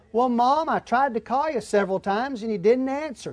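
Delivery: imitating a teenage son's mumble, words slurred together; marbles in mouth. A teenage son mumbling an excuse to his mom, marbles-in-mouth mumble. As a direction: mush the words like there are marbles in your mouth. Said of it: "said with marbles in my mouth".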